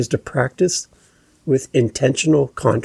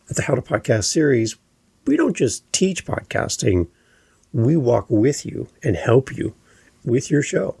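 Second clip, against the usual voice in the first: firm statement that settles down on "dot C A"; down inflection. Shown as a demonstration. Podcast coach giving a show pitch, falling inflection at the end. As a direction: drop the pitch to finish on "dot C A". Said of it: "All of them went down in my inflection".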